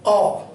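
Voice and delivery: "औ" as the open English vowel in "doctor"; isolated "औ", demonstrated as a borrowed English vowel. Shown as a demonstration. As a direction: say "औ" as one rounded, open o. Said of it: "क्या होता है?".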